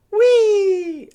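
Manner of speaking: high gleeful squeal; excited whee. Acted. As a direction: squeal with childish glee. Playful cry while scrolling.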